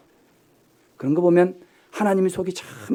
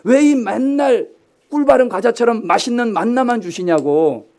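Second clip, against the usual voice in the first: drawn-out whiny grumble, slow and higher; mock complaint; 5 semitones higher, 5 dB louder than usual. Pastor mimicking grumbling Israelites, mock whine. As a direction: imitate the Israelites whining about manna. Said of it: "이스라엘 백성들은 ... 주시냐고".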